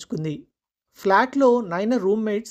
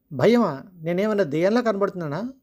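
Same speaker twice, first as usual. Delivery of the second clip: angrier husband. Acted. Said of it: "మరింత కోపంగా అన్నాడు".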